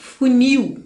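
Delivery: funil with fu kept quiet, nil stressed. Portuguese lesson on oxytone words, stress on last syllable of funil. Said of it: "O fu quase fica quietinho aí".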